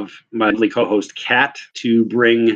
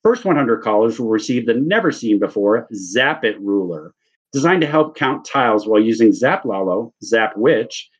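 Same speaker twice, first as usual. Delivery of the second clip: fast upbeat ad read; infomercial voice-over. Pretend. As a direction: sell it like late-night TV.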